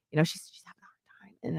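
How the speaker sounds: hushed whisper, almost breathless. Real, not acted. Mother whispers about her daughter crying beside her, hushed. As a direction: drop to a whisper as if she might hear.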